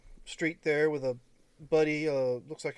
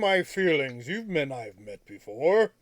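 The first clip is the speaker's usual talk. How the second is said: character voice; 9 dB louder than usual. Acted. GM voices Seymour.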